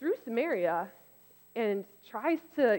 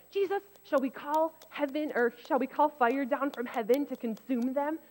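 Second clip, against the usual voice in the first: higher mock-indignant disciples calling for fire; hammed-up outrage, begging Jesus to strike; angry disciples; 5 semitones higher than usual. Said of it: "James and John are like".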